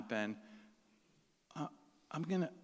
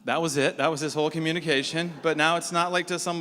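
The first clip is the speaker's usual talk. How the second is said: emphatic; 3 semitones higher, 7 dB louder than usual. Real, not acted. Preacher stresses point.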